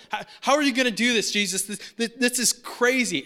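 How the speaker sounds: rising from hesitant to loud, panicked; a disciple losing his cool, building up; freaking out. Retold or imitated. Philip panics to Jesus over feeding the crowd, building from hesitant to a loud freak-out. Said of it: "Philip kinda freaks out".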